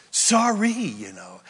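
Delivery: tossed-off sorry, up then dropping away; dismissive sorry. Shown as a demonstration. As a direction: brush off the apology. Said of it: "That's not the word".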